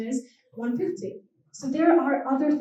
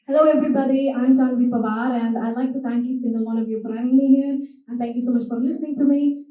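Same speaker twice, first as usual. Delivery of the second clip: Scottish accent. Shown as a demonstration. Thanking the audience for having her, Scottish accent.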